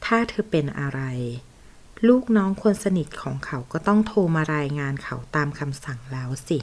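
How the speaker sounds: ordinary delivery, nothing marked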